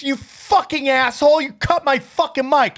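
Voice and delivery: retold screaming. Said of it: "She starts screaming at me on stage".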